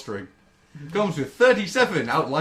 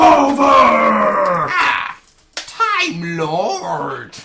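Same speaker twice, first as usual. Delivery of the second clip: put-on Irish accent; 7 semitones higher, 12 dB louder, much slower than usual. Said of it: "When did you go all Irish?".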